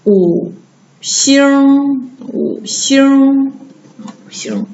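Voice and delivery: 五 and 星 said apart, then 五星 joined; teacher modelling 五星 slowly, piece by piece; slow model reading. Shown as a demonstration. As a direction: break 五星 into syllables for students to follow. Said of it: "来跟着老师读".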